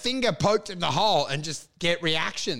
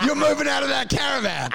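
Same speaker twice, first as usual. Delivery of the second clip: hype shout; 6 semitones higher than usual. Retold or imitated. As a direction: yell the good news like a maniac. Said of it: "And I'm like".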